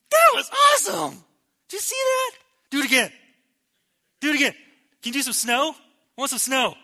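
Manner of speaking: high, loud mock-thrilled shouting; giddy excitement. Preacher mocking how disciples didn't react, giddy excitement. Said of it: "The disciples are not going".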